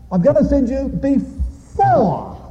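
"before" pitched high and drawn out; stress on before. Acted. Re-proclaims prophecy, stressing before.

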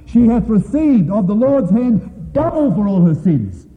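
loud, slow pulpit proclamation; full-force preaching. Acted. Preacher booming scripture to the brethren, loud and slow. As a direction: boom the scripture out to the congregation.

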